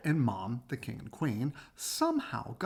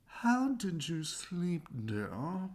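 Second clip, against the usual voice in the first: sweet queen; 2 semitones higher, 3 dB quieter, much slower than usual. Acted. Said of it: "the queen would ask".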